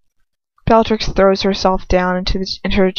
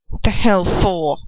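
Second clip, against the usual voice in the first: sharp; 2 semitones lower than usual. A narrator's reading. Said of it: "he says sharply".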